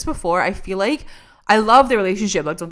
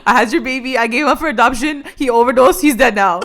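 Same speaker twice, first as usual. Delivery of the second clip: run-on mock confession, slightly raised; all in one breath; 2 semitones higher, 4 dB louder than usual. Recapper mimics mother confessing all in one breath. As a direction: rattle off the bad news without a break. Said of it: "in one breath".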